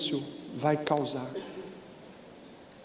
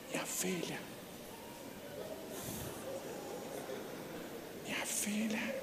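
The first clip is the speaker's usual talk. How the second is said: breathy whisper, almost silent; father whispering to his daughter; 3 semitones higher, 21 dB quieter than usual. Retold or imitated. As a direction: fade into a whisper. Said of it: "Agora é tudo no silêncio".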